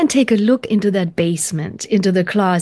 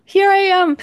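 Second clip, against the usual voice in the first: high, far-off monster taunt; 12 semitones higher than usual. Pretend. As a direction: pop out like a closet monster. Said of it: "the monster goes".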